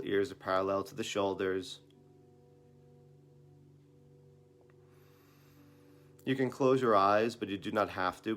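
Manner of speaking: unhurried meditation guidance with long pauses; guided meditation. Real, not acted. Teacher leading listeners into breathing practice, calm guided meditation. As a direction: gently guide them through it, leaving room to breathe.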